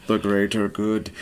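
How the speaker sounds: low, monotone cult-member chant; creepy monotone. Acted. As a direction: say it in an eerie monotone. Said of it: "Everyone speaks in a monotone voice".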